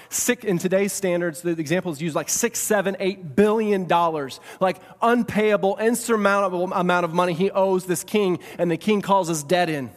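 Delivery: building, incredulous emphasis; emphatic preaching. Real, not acted. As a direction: pile up the amount with mounting force. Preaches the size of debt.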